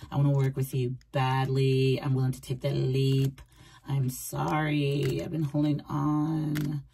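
voiced apology. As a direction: apologise gently and take your time. Voicing the remorseful partner's apology.

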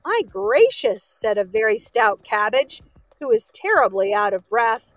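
lively, measured storybook reading; storyteller with animated dialogue; story narration. A narrator's reading. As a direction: read a tale aloud to children.

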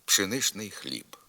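пшеничний хліб with шн sound; spoken pronunciation. Shown as a demonstration. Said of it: "вимовляється з групою «шн»".

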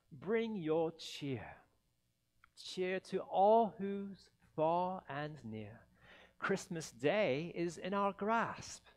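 lightly recited carol lyrics; carol verse. Acted. The narrator closes with the Whos' carol, gently recited.

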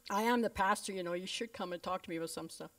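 mock-offended pastor, dry; a dry jab at his own importance; sarcastic. Pastor mocking himself about being skipped, dry sarcasm. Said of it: "that was sarcastic".

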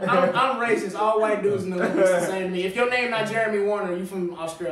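loud, high, joking self-accusation; mock confession. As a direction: ham up a fake admission of guilt. Mock self-accusation while laughing.

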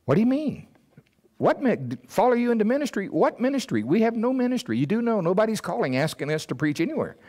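high, fast worried protest to God; panicked inner voice. Retold or imitated. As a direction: whine like a man counting his bills. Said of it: "my natural mind".

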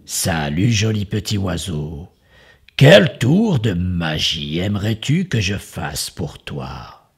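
a crafty wizard charming his guest; sly magician voice. Acted. Magician greets the bird.

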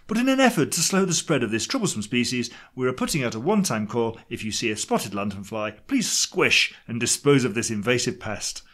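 brisk plummy English announcement, slowing toward the end; plummy English accent. Acted. Parks department urging people to squish pests, in a plummy English accent. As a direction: rattle off the notice in posh, plummy English. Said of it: "talking in a plummy English accent".

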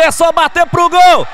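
roaring goal call; explosive goal commentary. Real, not acted. Goal scored live commentary.

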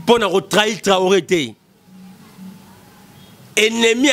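usual speaking voice

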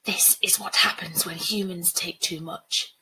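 hushed, breath-heavy spirit voice; Dia. Acted. Water spirit warning a human, hushed ominous voice. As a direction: speak as an ominous force of nature. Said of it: "her voice echoing like thunder".

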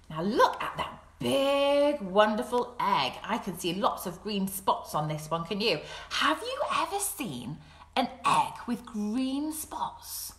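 slow, wondering read-aloud for little ones; storytime voice. Acted. Teacher to children, slow wondering storytime voice. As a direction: draw the children into the picture. Reading picture book to children.

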